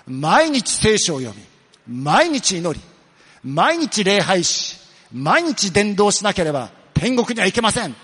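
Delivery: loud, slow, hammed-up hellfire warning; imitating a stern preacher. Pastor mocks a YouTube preacher, loud and stern. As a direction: mimic the scary YouTube pastor, heavy and forceful. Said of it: "ものすごい怖い顔してね".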